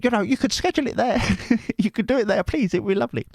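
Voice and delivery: high put-on voice, a fast coaxing please; high pleading falsetto. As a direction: coax like the sweet viewer. Voicing the viewer in falsetto.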